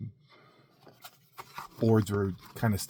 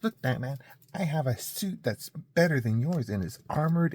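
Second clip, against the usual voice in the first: Superman bragging; 3 semitones higher than usual. Pretend. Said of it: "he wants to compete with Batman".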